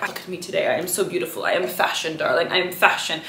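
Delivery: softly mimicking a vain model; quiet, mildly self-admiring diva imitation; self-absorbed diva. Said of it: "she's very into herself".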